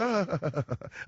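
put-on laugh; mock chuckle; retold laugh. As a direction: imitate someone laughing it off. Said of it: "I laughed".

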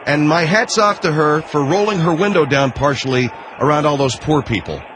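mock-admiring tribute; sarcastic. Real, not acted. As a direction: pretend to praise her, sarcastically. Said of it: "I'm being sarcastic".

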